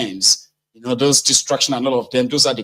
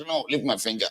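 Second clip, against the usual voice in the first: "No, leave my finger" said much softer, under the breath; muttered protest; 9 dB quieter than usual. Retold or imitated. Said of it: "I was like".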